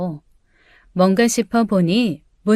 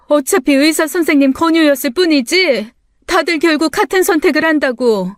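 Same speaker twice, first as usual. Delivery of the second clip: mother pleading; 4 semitones higher than usual. Acted.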